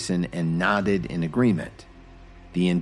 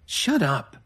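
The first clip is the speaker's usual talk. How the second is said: scowled; 9 semitones higher than usual. Acted. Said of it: "Lily scowled".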